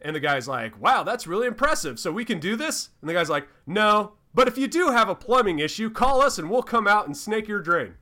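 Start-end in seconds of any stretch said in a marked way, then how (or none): 0.8-2.9 fake Southern accent. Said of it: "in this very fake Southern accent". 3.7-7.9 fake Southern accent. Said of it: "in this very fake Southern accent".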